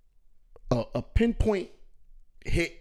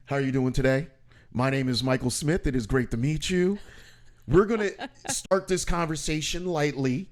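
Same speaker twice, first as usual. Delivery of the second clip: polished corporate voice; 2 semitones lower than usual. Retold or imitated. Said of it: "suit and tie, very polished".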